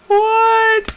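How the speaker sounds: sudden high, loud burst of surprise; shocked what. Real, not acted. Vlogger spotting Q*bert in the comic, loud surprised yelp. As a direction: blurt it out in real disbelief.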